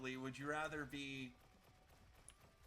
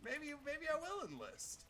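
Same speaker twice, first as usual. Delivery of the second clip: tempted musing; 12 semitones higher, slower than usual. Retold or imitated. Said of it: "I would be like".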